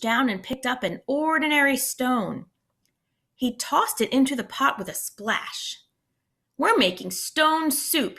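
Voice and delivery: lively read-aloud storytelling voice; expressive picture-book reading; story narration. A narrator's reading. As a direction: read it to a class of kids.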